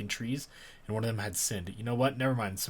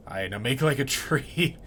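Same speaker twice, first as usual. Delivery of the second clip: mock gloat; 3 semitones higher, 3 dB louder than usual. Cutter gloats, then whispers.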